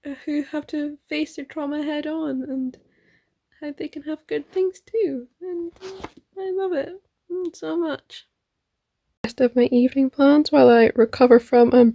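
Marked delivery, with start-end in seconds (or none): 3.6-8.3 tearful. Real, not acted. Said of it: "but there are tears".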